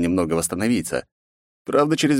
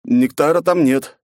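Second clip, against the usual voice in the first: strained croak; 6 semitones higher, 5 dB louder, slower than usual. Acted. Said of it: "с трудом прокряхтел я".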